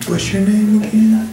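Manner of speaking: high, laughing mock caller voice; hammed-up high caller voice; nosy caller. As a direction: squeak out a nosy caller's question. Caller voiced in phone story.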